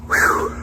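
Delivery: winded exhale after climbing stairs; huffing and puffing. Real, not acted. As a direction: blow out a tired breath. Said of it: "sorry for the huffing and puffing".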